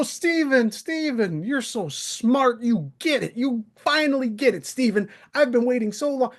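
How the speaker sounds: high, sing-song sneer at new hosts; mocking impression. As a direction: lampoon him gushing over someone new. Mocking Tom's fawning over new hosts.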